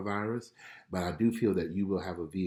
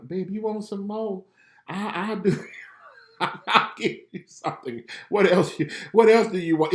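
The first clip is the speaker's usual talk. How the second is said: a melted dad offering her more; doting daddy; 11 semitones higher, 6 dB louder than usual. Retold or imitated. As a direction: gush over your little girl. Voicing himself melting for daughter.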